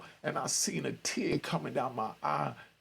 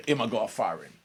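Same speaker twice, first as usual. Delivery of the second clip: Jamaican patois; 3 semitones lower, 3 dB louder than usual. Retold or imitated. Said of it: "when a man say".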